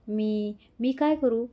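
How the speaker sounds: a hint of tears, slowed and halting; slow tearful plea. A narrator's reading. Anvi, guilty, asks Purva what to do, tearfully. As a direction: ask what to do through light tears. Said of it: "ती रडत म्हणाली".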